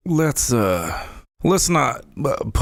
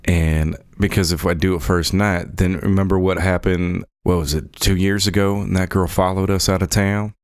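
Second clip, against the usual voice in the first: put-on lightly held character accent for Deke; a courtly Southern accent, politely formal; Deke's Southern-style drawl accent. Son asking the lady about breakfast, in a light character accent. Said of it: "my other accent is slipping into this one".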